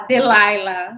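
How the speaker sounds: very slow, drawn-out Delilah; radio host's sultry name. Retold or imitated. Imitating the night radio host saying her own name. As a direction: stretch the name like a late-night DJ. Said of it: "Mas ela fala".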